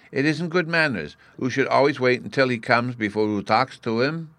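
put-on childlike lecture on manners; a hint of an earnest small child; earnest Bruno. A narrator's reading.

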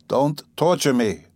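irritated, drawing the words out; a touch of weary irritation; mild irritation. A narrator's reading. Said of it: "he said with a gesture of irritation".

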